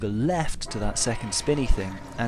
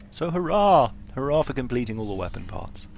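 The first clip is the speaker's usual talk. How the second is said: cheery hurrah; 3 dB louder than usual. Real, not acted. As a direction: celebrate the win out loud. Mock celebration of finishing weapon parts.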